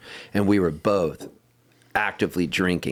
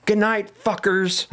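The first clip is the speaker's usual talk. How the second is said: snarky sign-off; 13 semitones higher than usual. Retold or imitated.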